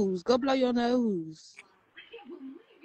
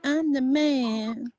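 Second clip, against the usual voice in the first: a hint of Martin, stretched slow; Martin impression; much slower than usual. Sister quotes the sitcom Martin to Maggie, mock. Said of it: "Do you watch Martin?".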